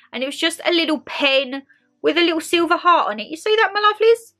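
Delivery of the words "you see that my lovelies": whisper. Real, not acted. Showing pen to viewers.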